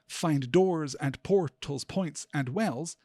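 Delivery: slow "find DOORS and POR-tals, POINTS and WELLS"; smooth metrical reading, stressing "doors", "portals", "points", "wells"; corrected iambic scansion. Shown as a demonstration. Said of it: "it's easy to fix. If the line were".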